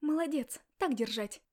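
loud sarcastic bark. Acted. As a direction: shout it out, mocking the husband. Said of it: "гаркнула я". (громкий насмешливый окрик)

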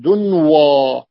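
دنوى spelled out slowly, the و clear; slow clear pronunciation. Shown as a demonstration. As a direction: draw out دنوى for the students. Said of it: "أصلها الدن".

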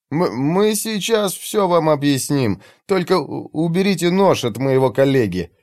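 slow, careful, stammering; deliberately slow. Acted. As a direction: speak slowly so as not to startle. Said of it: "говорил нарочито медленно".

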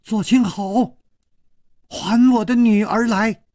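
high angry mother calling from outside; shrill woman's shout. Acted. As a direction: yell it out, a mother demanding her daughter back. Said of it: "又尖又响亮的女子的声音".

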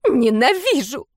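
high, loud piercing shriek; shrill screeching. Acted. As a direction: screech it out in hatred. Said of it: "пронзительно заверещала магиня".

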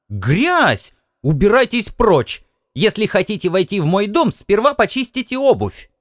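high scolding housewife; indignant scolding. Acted. Housewife scolds muddy earthmen, high and indignant. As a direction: chase the muddy man out. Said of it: "возмутилась она".

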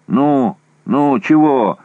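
loud, high impatient yell; shouting. A narrator's reading. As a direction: yell at the radio operator. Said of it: "закричал он радисту".

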